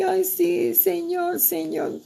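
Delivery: put-on high, breathless little-girl cry of joy; childlike delight. Woman reliving childhood memory to God, high childlike delight. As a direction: squeal it like a thrilled child.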